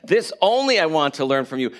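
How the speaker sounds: strong stress on "only"; insistent reading with "only" stretched out; emphatic. Acted. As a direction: read it firmly, leaning hard on "only". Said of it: "it's very emphatic".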